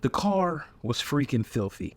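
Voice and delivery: slow hushed whisper; hushed confession to viewers. Acted. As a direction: whisper it like a secret. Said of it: "whispered aside".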